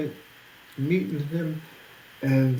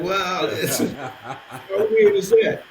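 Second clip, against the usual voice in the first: laughing amazed; 3 semitones higher, 4 dB louder, slower than usual. Retold or imitated. Telling the host how strange the meeting was, laughing. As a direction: let the amazement crack into laughter.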